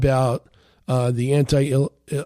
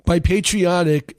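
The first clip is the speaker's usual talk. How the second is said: By patriotic, with patriotic lifted a little higher in pitch; emphasis on patriotic; 4 semitones higher than usual. Real, not acted. Host to his listeners, lightly stressing patriotic. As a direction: lean on the word patriotic to explain it. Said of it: "I want to put the emphasis on the word patriotic".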